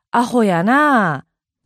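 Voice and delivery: slow, drawn-out Kansai tease; light-hearted teasing. Retold or imitated. Retelling a remark to a Tokyo friend, light-hearted Kansai teasing. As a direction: say it lightly, stretching the ending. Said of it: "と軽い気持ちで言ったら".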